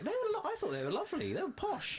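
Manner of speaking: high, fast, laughing sarcasm; laughing sarcastically. Real, not acted. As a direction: giggle through the fake praise. Sarcastic praise of site toilets.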